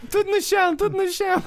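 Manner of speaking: high, loud barking police voice; shouting cop. Acted. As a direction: yell orders like a raiding cop. Playing a police character.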